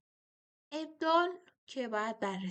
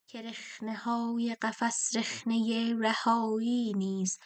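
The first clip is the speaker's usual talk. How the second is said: slow verse recital; 4 dB louder, slower than usual. Shown as a demonstration. Teacher rereads the second half-line for scansion, slow and louder. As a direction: read slowly, a bit louder, weighing each foot. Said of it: "مصرع دوم رو دقت کنید".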